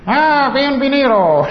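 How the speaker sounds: high, bright mock welcome to the bar; mock bar greeting. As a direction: greet him like a barman, laughing.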